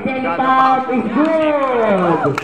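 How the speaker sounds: slow score call with a long final word; drawn-out announcer call. Real, not acted. Announcer confirming a made basket, drawn-out call. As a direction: stretch the last word way out, sliding down.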